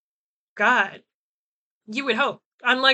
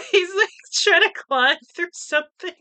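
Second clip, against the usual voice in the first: higher, laughing as she watches her cat; 8 semitones higher, 4 dB louder than usual. Real, not acted. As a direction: giggle through it, voice up. Laughing at cat climbing nearby.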